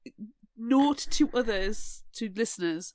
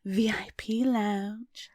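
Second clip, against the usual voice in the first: slow creepy whisper; much slower than usual. Pretend. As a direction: breathe it slowly, creepily.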